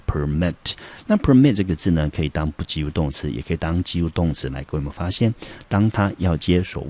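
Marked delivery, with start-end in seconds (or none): 0.1-0.5 "permit" stressed on the second syllable, MIT; "permit", light first syllable, stressed second. Shown as a demonstration. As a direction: model the verb "permit" as per-MIT. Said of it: "重音节落在第二个音节".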